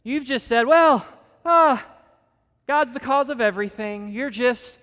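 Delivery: loud, high indignant retort; snapping back. Retold or imitated. Poirot snapping back at Hastings, loud and indignant. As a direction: snap back in offended protest. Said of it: "Poirot snaps back at him".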